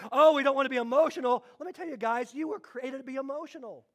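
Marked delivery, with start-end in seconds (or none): 0.1-1.4 fast, prissy mock fear of emotion; mock prim churchgoer. Preacher mocks fearful churches, quick prim mockery. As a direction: lightly sneer it as a stiff churchgoer. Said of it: "so afraid of emotion".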